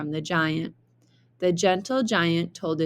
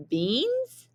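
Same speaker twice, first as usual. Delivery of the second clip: shocked question; 9 semitones higher than usual. Acted.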